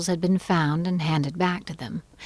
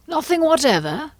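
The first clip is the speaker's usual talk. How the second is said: pressing question, voice pitched high; the king presses, pitched up; persistent king, high; 10 semitones higher, 4 dB louder than usual. A narrator's reading.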